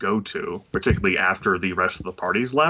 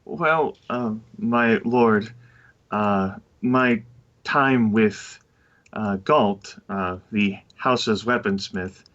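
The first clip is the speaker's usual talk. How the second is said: perplexed. Acted. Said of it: "a rather perplexed statement says".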